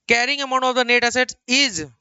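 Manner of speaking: slow reading. Shown as a demonstration. Reading textbook line slowly.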